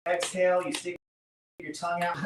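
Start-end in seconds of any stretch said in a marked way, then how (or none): 0.1-0.6 lion's breath. Shown as a demonstration. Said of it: "So lion's breath is when you".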